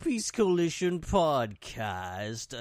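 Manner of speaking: lightly spooky haunted-house announcer; haunted mansion voice. Acted. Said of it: "whether that voice was a, was a ghostly voice or if it was, like, a Dracula voice".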